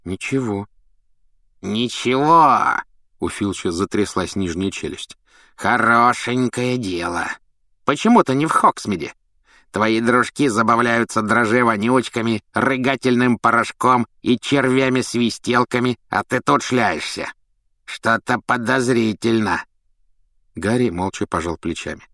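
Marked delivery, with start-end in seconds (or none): 1.6-2.8 slow, trembling echo of the word; angry old caretaker. Acted. Filch repeats, jaw trembling. 5.5-19.6 put-on grumpy old caretaker. Filch voiced by narrator.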